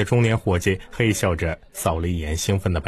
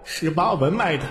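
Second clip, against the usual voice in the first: higher, rueful lament; inner lament; 11 semitones higher than usual. A narrator's reading. Clerk lamenting his losses inside, rueful. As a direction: mourn the lost money. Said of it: "心中啊是泪如雨下".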